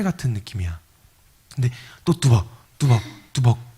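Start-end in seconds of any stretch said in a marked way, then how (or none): 2.2-3.8 low, measured footfalls; ominous step sounds; imitated footsteps. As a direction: mimic steps nearing the door. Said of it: "뚜벅 걷더니".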